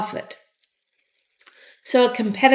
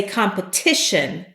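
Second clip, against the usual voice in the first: competition stressed on ti, kahm-puh-TI-shun; teacher shows competition with stress on ti. Shown as a demonstration. Teacher to learners, showing the stress on ti. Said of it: "the accent is on this I".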